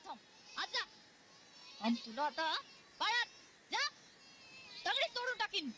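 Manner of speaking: put-on harsh teacher threatening the children; angry scolding. Teacher yelling at noisy pupils, angry. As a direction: scold the unruly class, threatening.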